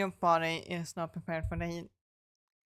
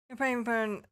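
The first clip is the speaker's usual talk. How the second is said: dramatic shock; 4 semitones higher, 3 dB louder than usual. Acted. Dramatic gasp over apron.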